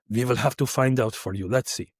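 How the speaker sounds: lightly voiced Russian-accented reply; imitated Russian guard. Russian guard offers to check, in a Russian accent. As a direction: answer with a touch of Russian accent. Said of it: "there's a Russian guard and he goes".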